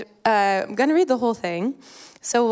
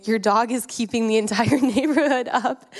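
amused retelling; 3 semitones higher than usual. Retold or imitated. Retelling neighbor's complaint, laughing.

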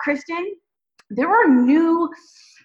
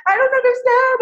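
confused inner voice; 11 semitones higher, 3 dB louder than usual. Retold or imitated. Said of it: "what was in my heart was sort of like".

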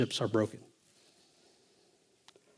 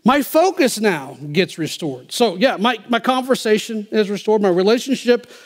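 high-pitched, forceful sermon delivery; impassioned preaching; 7 semitones higher, 7 dB louder than usual. Real, not acted. Preacher declares scripture to the congregation, impassioned. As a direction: draw out the key words and ring them out.

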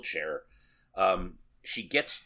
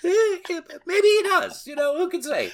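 mock ominous; 7 dB louder than usual. Mock ominous movie ending.

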